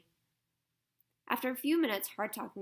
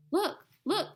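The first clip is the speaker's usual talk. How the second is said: higher and louder, eager cry; excited cry; 10 semitones higher, 7 dB louder than usual. Acted. Diggory spots the ring on the guinea pig, excited cry. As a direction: call out, thrilled by the discovery. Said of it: "cried Diggory".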